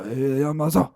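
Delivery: Yamaza in a jokey put-on Asian accent. Shown as a demonstration. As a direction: lightly ham up an Asian accent. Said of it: "the Asian accent, just like I'm doing now".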